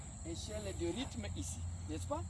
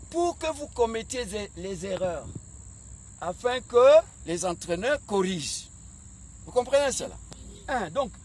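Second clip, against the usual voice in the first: loud, higher, fired-up coach address; rally the team, full voice; roaring rallying speech; 3 semitones higher, 7 dB louder than usual. Acted. Coach exhorts young players.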